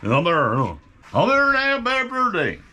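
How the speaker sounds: mumbled Cornish, words run together; mumbly Cornish accent. Acted. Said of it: "A mumbly Cornish".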